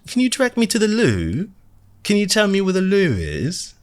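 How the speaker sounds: put-on a squeaky tourist putting on an Australian accent. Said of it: "now I'm switching to Australian".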